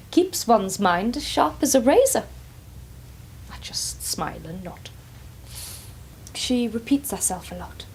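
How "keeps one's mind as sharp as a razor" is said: posh Ethel. Retold or imitated. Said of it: "She's dead posh".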